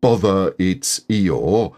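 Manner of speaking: mild mock loud grumble; a hint of an annoyed shout; lightly imitated loud bother. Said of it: "says in a loud voice".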